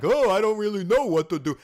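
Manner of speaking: hammed-up helpless dimwit; mocking a clueless fool. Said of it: "you just try to act like a moron".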